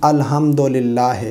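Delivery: quick, spoken "अल्हम्दुलिल्लाह" with short vowels; unchanted "अल्हम्दुलिल्लाह", fast and Urdu-accented; common mistake. Shown as a demonstration. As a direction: say "अल्हम्दुलिल्लाह" casually, ending in a lax "-he". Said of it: "बाद लोग गलती कर जाते हैं".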